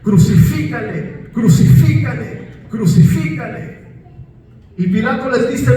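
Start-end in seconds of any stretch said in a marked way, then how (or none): 0.0-3.8 repeated mob cry, growing louder; crowd shouting. Retold or imitated. Preacher voicing the mob demanding crucifixion, rising shout. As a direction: hammer each crucifícale like an angry crowd. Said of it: "empezaron a gritar".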